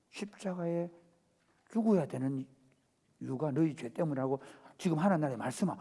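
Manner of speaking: 훨씬 작고 낮게 조용히 말하는 예수; 속삭이듯 조용히 일러줘; soft solemn explanation. Acted. 예수가 제자들에게 차분히 설명. (제자들에게 훨씬 작고 낮게 설명하는 예수)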